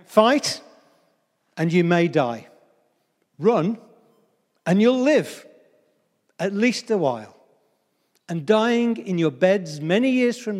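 stirring pre-battle speech with dramatic pauses; rally reluctant men, phrase by phrase; William Wallace. Acted. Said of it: "this is what he says".

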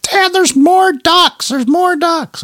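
put-on very high, slow excited child's shout; imitating his kids yelling in discovery; kids screaming. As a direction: shriek it like an excited little kid. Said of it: "my kids were screaming".

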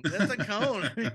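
slow, laughing words. Real, not acted. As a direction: laugh as you say it. Laughing at a fall.

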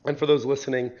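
slightly hoarse voice. Real, not acted. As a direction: speak with a rough, tired throat. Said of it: "I'm a little hoarse today".

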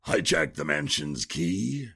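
high-pitched questioning disbelief; incredulous echo. Acted. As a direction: repeat the plan back as a baffled question. Incredulous echo of a strange plan.

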